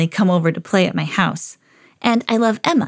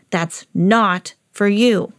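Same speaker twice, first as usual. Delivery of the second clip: slow warning; much slower than usual. Acted. Owner warns dog off ice cream.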